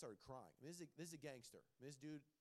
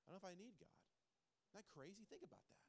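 hushed confession; 3 semitones higher, 7 dB quieter, faster than usual. Real, not acted. Pastor confessing doubt to the congregation, hushed. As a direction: drop the voice to a soft, almost whispered admission. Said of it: "can I say this?".

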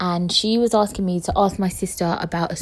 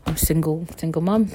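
ordinary talk

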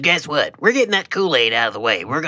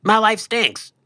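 high, glum mascot voice; Kool-Aid Man voice; 10 semitones higher than usual. Retold or imitated. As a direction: whine it like a sad cartoon pitcher.

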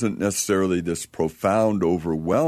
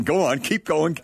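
high, impatient go on; eager urging; 8 semitones higher than usual. Retold or imitated. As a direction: push them to keep going eagerly. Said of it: "And I'm like".

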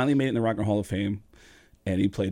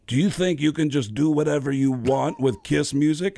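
indignant put-on prank voice; a rock musician; 3 semitones higher, 3 dB louder than usual. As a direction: give him a hard time, mock-stern. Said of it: "I started giving him a hard time".

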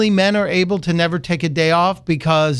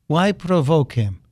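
bad Putin voice. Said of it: "again in my bad Putin voice".

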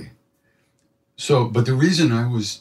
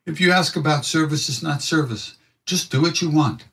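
higher, gentle guru voice; lightly voiced guru; Maharaji's voice; 6 semitones higher than usual. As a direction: deliver the teaching lightly. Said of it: "He said".

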